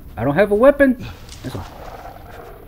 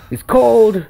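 louder complaint; 4 semitones higher, 4 dB louder than usual. Pretend. Shivering in the snowy woods.

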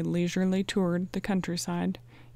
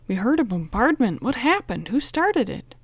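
breathless; 5 semitones higher, 6 dB louder than usual. A narrator's reading. Frank, winded from running, demands answers breathlessly. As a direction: still winded, loud and urgent. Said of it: "Frank panted".

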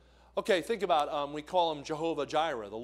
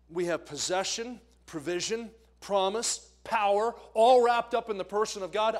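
each word climbing higher and louder to a peak; building to a shout; 5 semitones higher, 6 dB louder than usual. Acted. Preacher summing up God's names, building from plain to a shout. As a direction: stack the names until the roof rings.

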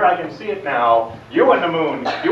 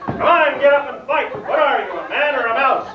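mocking taunt; 5 semitones higher than usual. Julius taunts the Count to fight, cocky jeering. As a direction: goad him like a cocky schoolyard bully.

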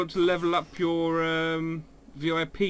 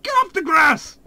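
loud, high bad Scottish shout; bad Scottish accent; 13 semitones higher, 9 dB louder than usual. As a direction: yell it as a bad Scottish groundskeeper. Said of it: "I can't do a good Willy".

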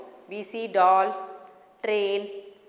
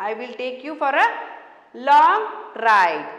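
excited toy train; 6 dB louder, faster than usual. Acted. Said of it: "the toy train says".

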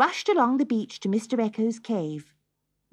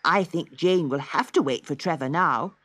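a hint of a lower, calm brother; lightly voiced brother Morris; 5 semitones lower than usual. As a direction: speak as the sensible older brother, a bit lower. Morris voiced lower than narration.

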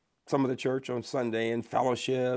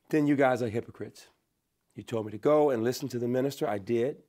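put-on indignant child protesting, loud at first then easing off; retold upset protest; 4 dB louder, faster than usual. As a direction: retell a child's challenge to parents, mildly heated. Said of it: "I was very upset".

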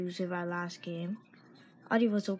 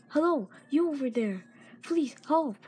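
calling out; 5 semitones higher, 5 dB louder than usual. Acted. Professor NPC calling out.

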